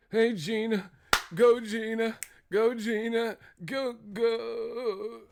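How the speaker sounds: put-on high-pitched white-boy cheering; Bob from marketing. Bob cheering Gina on, high put-on voice. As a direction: chant it high, in a goofy put-on voice. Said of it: "Bob from marketing".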